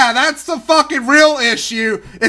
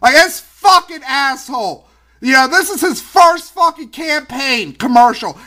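angry, exasperated rant, pitched up at the start and end; really pissed off; 3 semitones higher than usual. Real, not acted. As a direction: rant in real indignation, punching the swear words. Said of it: "I'm so fucking pissed right now".

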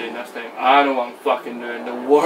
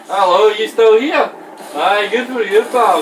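mocking taunt; 5 semitones higher, 6 dB louder than usual. Real, not acted. Gamer taunting an enemy.

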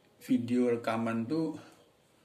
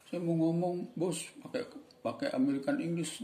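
mock request; 7 semitones higher than usual. Imagined request to English crown.

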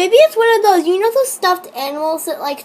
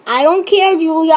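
louder, pushier I don't care aimed at Julia; exasperated retort; 4 dB louder, faster than usual. Real, not acted. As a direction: push the words at her, fed up. Repeating dismissal to Julia.

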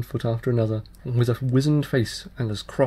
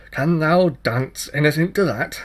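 higher, louder impish challenge; changeling child voice; 4 semitones higher, 6 dB louder than usual. Acted. Fairy child challenges the tailor, higher and louder. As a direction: tease him with a cheeky dare.

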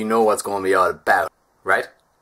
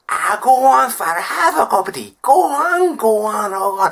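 much higher, louder insistent housekeeper; high loud pushy "go on, go on"; Mrs Doyle; 10 semitones higher, 6 dB louder than usual. Retold or imitated. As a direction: push the tea on him relentlessly. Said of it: "bad Father Ted impression".

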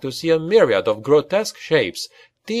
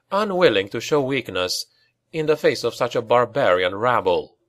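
usual speaking voice

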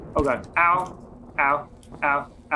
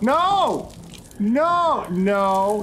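high shout; 5 semitones higher, much slower than usual. Real, not acted. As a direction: shout it in alarm. Sudden danger in game.

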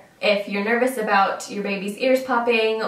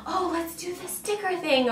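put-on high, sing-song voice for a toddler; cheery toddler talk; 9 semitones higher, 6 dB quieter than usual. Mom coaxing her crying toddler on the plane, high and sing-song. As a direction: brighten up to distract a fussy child. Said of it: "So I'll say, like".

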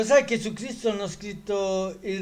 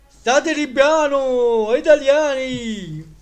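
put-on German accent; 6 semitones higher, 7 dB louder than usual. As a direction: yell it like a German tourist mocking Italians. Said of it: "Duncan che imita un tedesco".

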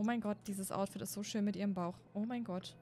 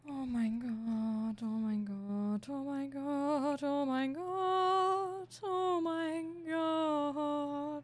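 shrieking jackpot winner; 5 semitones higher, much slower than usual. Real, not acted. Repeated drawn-out exclamation.

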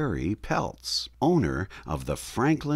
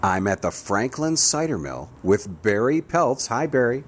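Grizzly Gus; 3 semitones higher, 4 dB louder than usual. Acted. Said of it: "as Grizzly Gus, an alter ego of mine".

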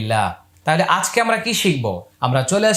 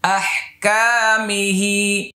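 আহকামিহি drawn out very slowly; slow model reading; 2 semitones higher, much slower than usual. Shown as a demonstration. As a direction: stretch it syllable by syllable. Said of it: "teacher models word slowly".

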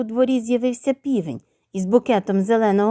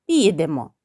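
lower, gentler consent from dad; slightly softened; 5 semitones lower than usual. A narrator's reading. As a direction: give in gently, dropping the pitch. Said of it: "трохи м'якіше додав".

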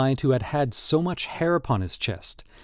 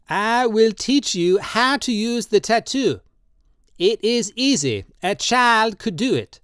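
put-on high, slow, pleading old man's voice; old tattooist Drioli, drunk and pleading; 9 semitones higher, slower than usual. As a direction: coax him tenderly, in wine. Drioli insists.

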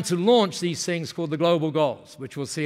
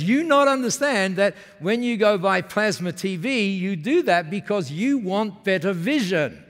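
put-on Masami's Japanese-accented English; 3 semitones higher, 3 dB louder than usual. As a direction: correct him in a Japanese speaker's broken English. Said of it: "when they speak like that".

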